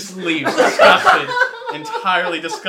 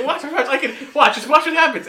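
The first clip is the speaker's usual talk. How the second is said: laughing boast; 11 semitones higher, 6 dB louder than usual. Retold or imitated. Player's boast acted out, laughing.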